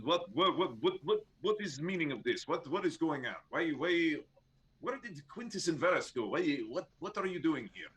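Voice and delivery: flustered guard. Acted. Flustered guard questioning party.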